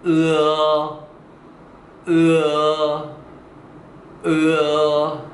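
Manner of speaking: "으어" held long, with 어 added behind 으; steady teacher's model of "으어"; eu gliding to eo. Shown as a demonstration. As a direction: draw out "으어" very slowly on a level tone. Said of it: "어라고 발음합니다".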